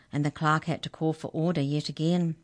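ordinary delivery

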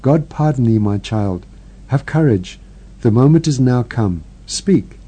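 put-on gentle, hushed comfort of an old priest; soft priestly voice. Old priest consoling the dying sister, softly. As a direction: soothe the dying woman softly. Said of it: "with a soft voice".

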